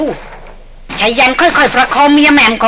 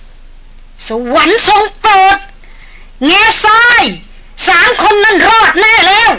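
overjoyed outcry; 7 semitones higher, slower than usual. A narrator's reading. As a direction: blurt it out, forgetting himself with delight. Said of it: "จอมพรานร้องขึ้นอย่างลืมตัว".

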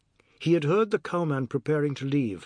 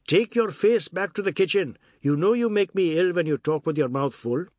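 scolding Ajoda; 5 semitones higher, 4 dB louder than usual. Acted. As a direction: send him off in mild disgust.

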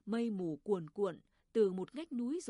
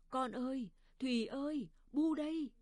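high call, building louder; crying out; 4 semitones higher, 4 dB louder than usual. A narrator's reading. Mother crying out for her son in a dream, calling high. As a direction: call out to a lost child, rising in pitch and force. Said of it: "Bà gào lên".

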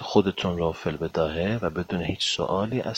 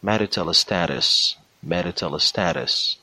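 thicker American accent; much slower than usual. Shown as a demonstration. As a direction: say "marital status" slowly in a thicker American accent.

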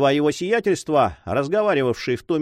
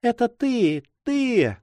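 high-pitched exclamation at ordinary volume; crying out; 9 semitones higher, much slower than usual. A narrator's reading. Sister throwing herself to her brother, crying out. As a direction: cry out in astonished recognition, pitched well up. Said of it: "громко вскричала она".

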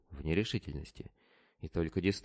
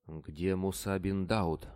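ordinary delivery, nothing marked

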